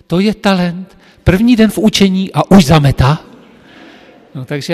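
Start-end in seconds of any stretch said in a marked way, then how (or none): 0.1-3.3 higher, louder ironic acclaim; mock praise. Mistress teasing the apprentice in front of the girls, ironic praise. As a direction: hold him up as a marvel, tongue in cheek.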